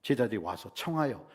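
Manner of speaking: ordinary talk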